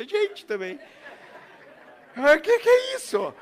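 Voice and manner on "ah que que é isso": much higher and louder, startled disbelief; shocked passerby in São Paulo; shocked exclamation. Retold or imitated. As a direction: gasp at the sight in the street. Shocked at a leashed child.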